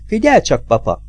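put-on high, anxious little girl; child's voice. A narrator's reading. Jill warning her father, high child voice.

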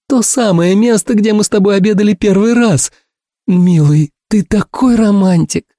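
high, gushing woman's voice; sentimental Ursula. A narrator's reading. Ursula recalling their first dinner, high and dreamy.

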